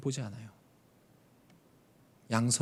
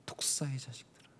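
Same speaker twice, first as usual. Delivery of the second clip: whispered rebuke; 4 semitones lower, 13 dB quieter than usual. Acted. Jesus rebuking Pharisees quoted.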